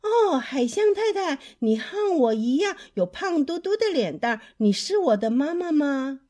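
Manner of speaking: high, loud little-bird voice; speaking up loudly. Acted. Little bird to Mrs. Walrus, speaking up loudly. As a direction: call out and ask hopefully. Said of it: "她大声地说".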